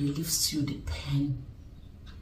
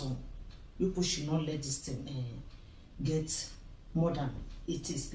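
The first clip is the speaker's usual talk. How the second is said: quiet worried plea; 6 dB quieter than usual. Acted. Older sister softly pleads with her sister. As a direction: beg gently, worried.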